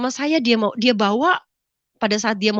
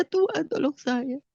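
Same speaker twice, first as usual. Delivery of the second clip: softer, slow, spent plea to God; faded plea; 3 semitones higher, 5 dB quieter, slower than usual. Retold or imitated. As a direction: let the plea sink into a softer, slow murmur. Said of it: "Saya cuma bilang".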